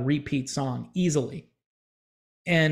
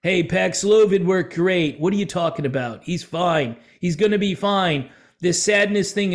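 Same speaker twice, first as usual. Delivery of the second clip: lightly voiced smug official; dismissive industry voice. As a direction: wave away the patient's complaint lightly. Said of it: "the medical industrial complex strikes again".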